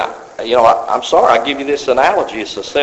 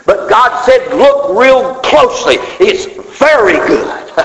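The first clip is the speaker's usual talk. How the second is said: voicing God; 9 semitones higher, 3 dB louder, slower than usual. Preacher voicing God, rising.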